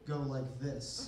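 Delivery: slow, low, easy delivery; comfortable and cool. Shown as a demonstration. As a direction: say it coolly, dropping down and taking time. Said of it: "now I can comfortably and coolly".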